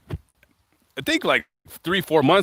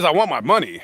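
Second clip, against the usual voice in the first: insistent demand; 3 semitones higher, 4 dB louder than usual. Retold or imitated. Mark demanding his money from Jason, insistent retold demand. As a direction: press the demand, lightly acted.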